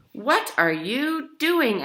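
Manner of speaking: Grandma puzzled at the itching guards; surprised question. A narrator's reading.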